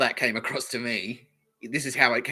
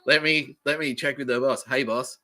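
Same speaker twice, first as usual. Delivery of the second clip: condescending; 3 semitones higher, 3 dB louder than usual. Retold or imitated. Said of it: "really condescending on purpose".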